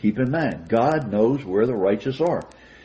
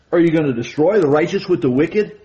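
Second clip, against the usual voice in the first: raised, pressing challenge, a bit louder; mock confrontation; 4 semitones higher, 4 dB louder than usual. Preacher voicing Abraham confronting the Lord, mildly indignant. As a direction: get in his face with a pointed question. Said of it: "You can almost hear his tone of voice".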